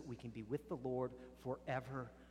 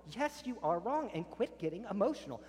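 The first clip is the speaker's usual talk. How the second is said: loud, higher, scolding back; heated retort; 7 semitones higher, 4 dB louder than usual. Acted. Other spouse firing back in the argument, loud and sharp. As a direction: escalate the fight, no backing down.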